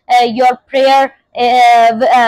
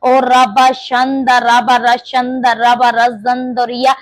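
speaking in tongues. Real, not acted. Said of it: "when you pray in the spirit of tongues".

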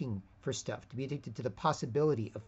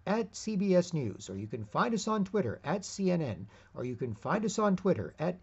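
a hint of a TV anchor plugging their Twitter; lightly voiced news announcer reading a promo; upbeat broadcast promo tone, lightly done; mimicking news promos; 6 semitones higher than usual. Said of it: "used to say".

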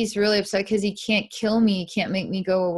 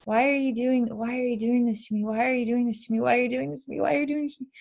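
mild crying plea; 4 semitones higher, much faster than usual. Retold or imitated. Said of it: "he starts to cry".

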